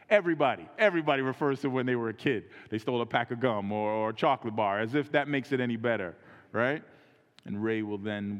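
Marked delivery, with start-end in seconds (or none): 0.1-6.8 emphatic preaching. Real, not acted. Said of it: "preaching emphasis".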